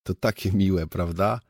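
mildly delighted; a touch of pleasure in the voice; pleased. Acted. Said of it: "ucieszył się Suchy". (z lekkim zadowoleniem)

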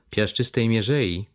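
„Piaszczystej mierzei” drawn out slowly, falling at the end; slow musing repeat. Acted. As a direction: ponder „mierzei” slowly, as if recalling. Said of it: "powtórzył". (powoli, z namysłem powtórzone „Piaszczystej mierzei”)

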